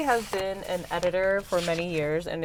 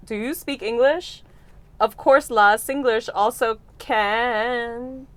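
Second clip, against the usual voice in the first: Singaporean accent; 3 semitones higher, slower than usual. Shown as a demonstration. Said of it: "that's exactly how you say it in Singapore".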